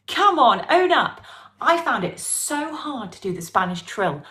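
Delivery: normal talking voice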